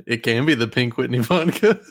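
laughing. Real, not acted. Laughing through a vodka joke.

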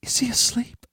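high, sharp hissed whisper; hissing whisper. A narrator's reading. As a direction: hiss it urgently under your breath. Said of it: "spoke in a hissing whisper".

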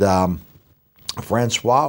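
ordinary talk, nothing marked

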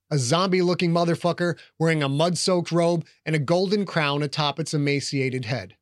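plain reading voice

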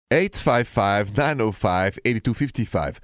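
number read again slowly, digit by digit; slow careful phone-number dictation; slow repeat. Shown as a demonstration. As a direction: spell the number out slowly so callers catch it.

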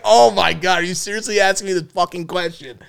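mock exasperation. Son asked about sex by his mom, mock exasperation. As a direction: act out appalled protest at being questioned. Son appalled at mother's question.

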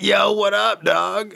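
high-pitched imitation of a hyped buddy; excited greeting. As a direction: greet an old pal in a squeaky voice. Retold friend's greeting.

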